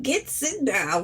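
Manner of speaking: lightly voiced Southern teacher; Southern teacher impression. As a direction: imitate his Southern bark a little. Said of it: "He sound like Foghorn Leghorn".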